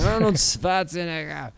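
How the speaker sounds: lightly put-on Austrian accent on the name. Shown as a demonstration. Naming the film's star, light Austrian accent. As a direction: give the surname a touch of Austrian. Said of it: "when you say it in that accent".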